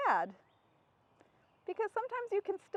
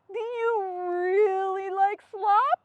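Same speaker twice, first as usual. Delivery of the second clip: pig character; 3 semitones higher, 6 dB louder, much slower than usual. Acted.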